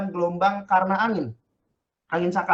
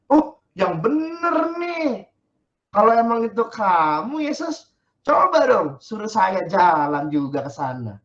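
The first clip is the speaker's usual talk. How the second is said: skeptical dare; 4 semitones higher, 5 dB louder, slower than usual. Pretend. Peter doubting, daring.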